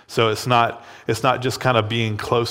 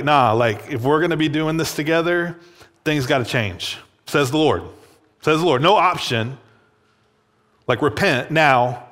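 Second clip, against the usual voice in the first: raised, commanding divine voice; forceful God; 3 semitones higher than usual. Acted. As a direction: lay down the law as the Lord. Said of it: "authoritative, forceful way".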